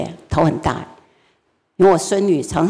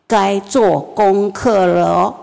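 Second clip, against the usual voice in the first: a bit louder; much slower than usual. Retold or imitated. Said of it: "大声一点".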